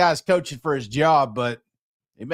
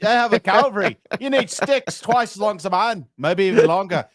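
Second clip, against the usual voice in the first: put-on half-assed Irish accent; 2 semitones higher than usual. Co-host asked for an accent, hams a Braveheart line in a half-assed Irish accent. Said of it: "like, a little half-assed Irish one".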